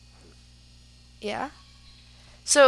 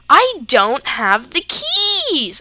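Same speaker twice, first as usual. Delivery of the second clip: near tears; 4 semitones higher, 7 dB louder, much slower than usual. Retold or imitated. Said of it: "And I'm starting to cry".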